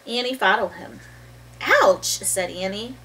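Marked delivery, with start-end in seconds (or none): 1.6-2.2 a touch of pain. Acted. Annie steps on something.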